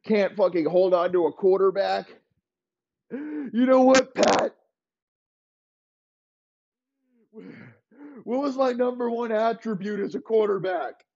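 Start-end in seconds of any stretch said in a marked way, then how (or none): 3.1-11.0 mock menacing Elway. Elway taunting Pat.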